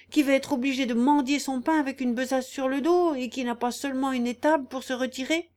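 high, indignant scolding. Acted. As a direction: pile up reproaches, voice lifted. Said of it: "s'écria la gotte en élevant la voix".

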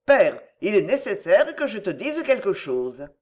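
a laugh breaking into a solemn announcement; giggling while declaring something grave; laughing through it. Acted. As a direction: try to be serious but laugh. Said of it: "Ne croyez pas que je me sois mise à rire".

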